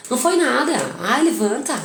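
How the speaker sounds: impatient parent brushing off the fall; stressed brush-off. Retold or imitated. Stressed mother snapping at the fallen child, impatient brush-off. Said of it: "pega uma frase pronta e fala".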